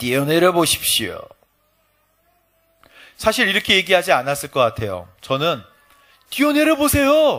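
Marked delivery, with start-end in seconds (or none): 0.0-1.2 put-on devil voice. Acting out the second temptation of Jesus, speaking in Satan's voice. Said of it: "사탄의 목소리를 한번 얘기해 볼게요".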